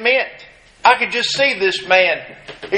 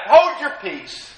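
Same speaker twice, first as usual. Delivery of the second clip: higher, pressing hush of a scolding crowd; rebuking crowd; 5 semitones higher than usual. Retold or imitated. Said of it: "they were telling him to be quiet".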